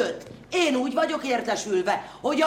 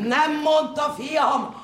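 ordinary talk, nothing marked

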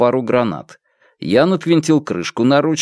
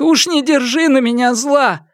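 high, plaintive apology; lamenting plea; 13 semitones higher than usual. A narrator's reading. Mother asking son-in-law's forgiveness, high plaintive lament. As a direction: plead for forgiveness in a high wail. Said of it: "вновь запричитала матушка".

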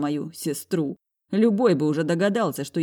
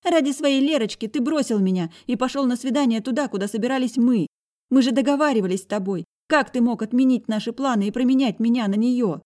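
put-on high, loud hurt girl's voice; high-voiced sister, wounded, holding back tears; hurt girl near tears; 8 semitones higher, 4 dB louder than usual. A narrator's reading. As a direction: accuse him, close to tears. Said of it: "Она чуть не плакала".

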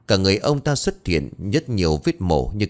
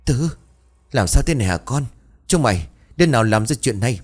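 trembling voice; 4 semitones higher, faster than usual. Acted. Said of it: "run rẩy".

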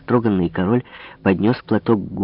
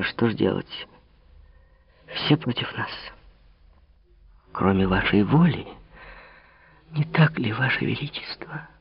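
softer, trailing into a whisper; hushed; 6 dB quieter than usual. Acted. Marie quietly asks the king, fading to a whisper. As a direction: ask it almost under her breath.

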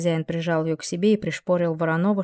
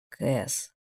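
deep demon voice; 5 semitones lower, 7 dB quieter than usual. Acted.

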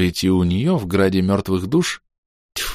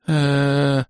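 stunned er; 6 semitones higher than usual. Acted. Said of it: "выдавила Мистри".

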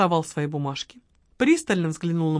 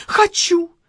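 sighing; 10 semitones higher, 6 dB louder than usual. Acted. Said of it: "вздохнула Маргарита".

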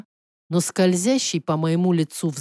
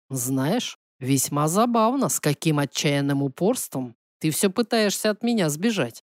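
amused prince; 4 semitones lower than usual. Acted. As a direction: tease her in a lowered male-character voice. Prince teases the heroine. (негромкий низкий голос насмешливого принца)

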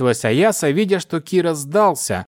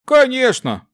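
snarling brute; 10 semitones higher than usual. A narrator's reading. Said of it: "оскалился один из дарганов".

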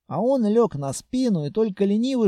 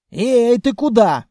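calling out; 4 semitones higher, 7 dB louder than usual. Acted. Calling after the monster.

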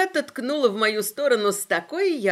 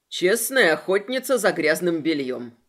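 dry scoff; 5 semitones lower, 3 dB louder than usual. Acted. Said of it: "хмыкнул Трентон".

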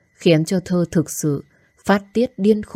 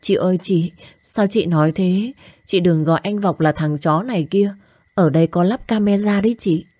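higher, imploring younger-sister voice; pleading; 3 semitones higher than usual. Acted. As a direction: beg her to forgive, gently. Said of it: "nhảy vào van xin". (giọng van nài)

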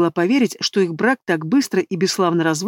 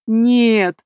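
higher wailing no; wailed no; 4 semitones higher, 4 dB louder than usual. A narrator's reading. Lilya answering through tears, a wailed no. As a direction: howl the word out in tears. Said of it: "провыла она в ответ".

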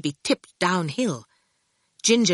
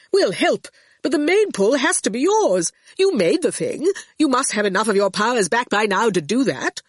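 raised, lightly acted character voice; Torquil urging; 4 semitones higher than usual. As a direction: urge them on with lively emphasis. Torquil speaking in the story.

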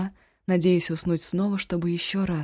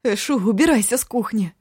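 louder, higher command to leave; angry order; 5 semitones higher, 6 dB louder than usual. Acted. Cook orders Eshu out of her kitchen. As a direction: order him out for good.

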